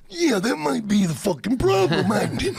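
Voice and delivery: intense wrestler impression; Macho Man. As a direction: push it out like a wrestler mid-promo. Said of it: "That's a great Macho Man impression".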